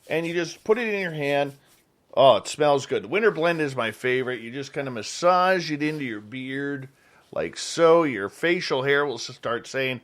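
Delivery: upbeat, casual radio host sponsor plug; chatty, punchy endorsement read; live ad read. Acted. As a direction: pitch the product like a radio host.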